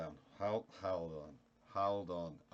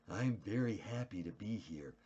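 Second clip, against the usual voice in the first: Ronald Reagan. Pretend. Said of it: "That was more like, uh, Ronald Reagan".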